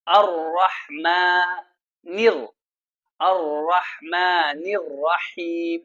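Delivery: slow, measured tajweed recitation; slow melodic Quran chant. Shown as a demonstration. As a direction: recite it slowly like a qari. Recites verse.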